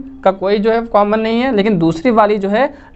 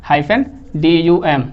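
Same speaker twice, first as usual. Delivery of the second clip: slowly, letter by letter, lower; slow spelling out; 3 semitones lower, much slower than usual. Shown as a demonstration. Teacher slowly spelling the iamb syllables for students, deliberate. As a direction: spell each piece out carefully for the class. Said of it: "ड में stress नहीं लगता लेकिन डम में stress लगता है".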